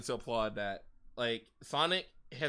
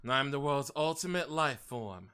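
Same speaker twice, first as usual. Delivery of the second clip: lightly voiced brooding antihero; Shadow impression. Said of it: "That's a good impression".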